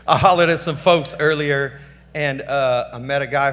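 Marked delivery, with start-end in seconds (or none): 0.1-1.8 laughing as he starts over on "hollered"; restarting with a laugh and a bit louder. Real, not acted. Going off script at an awards speech, with a laugh. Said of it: "Obviously, I'm off script".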